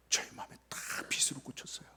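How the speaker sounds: whispered, low, soft; hushed confession. Real, not acted. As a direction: speaker whispering how the words cut him. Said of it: "hurt confession".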